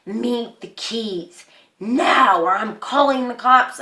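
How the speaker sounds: retold angry yelling. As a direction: lay down a slowed, forceful ultimatum. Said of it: "yelling, and she's like".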